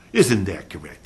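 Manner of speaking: mock lawyer tag question. Shown as a demonstration. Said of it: "That's legal speak".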